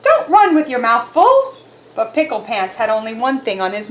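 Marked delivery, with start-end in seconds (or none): 0.0-1.5 scolding mom. Acted. Mother scolding her kitten.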